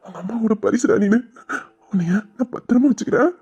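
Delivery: put-on cherish the baby, close to happy tears; tearful tenderness. New father to his baby, moved and tender.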